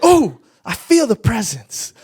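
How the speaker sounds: loud, laughing mock rapture; ecstatic praise. Imitating the hospital woman feeling God's presence, loud and laughing. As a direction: ham up her swoon of the Spirit. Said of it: "She was like".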